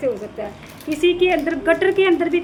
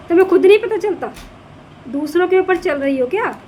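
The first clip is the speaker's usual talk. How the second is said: louder, fast rebuke; exasperated scolding; 3 semitones higher, 4 dB louder than usual. Real, not acted. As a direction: snap the question at her, exasperated. Scolding the woman in the video.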